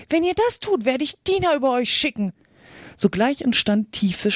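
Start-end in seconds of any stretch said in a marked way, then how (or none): 0.1-2.3 high-pitched cry at normal volume; mock shout. A narrator's reading. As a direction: threaten in a raised pitch, volume held back. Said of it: "schrie Alice so laut sie konnte". (gerufene Drohung mit hoher Stimme)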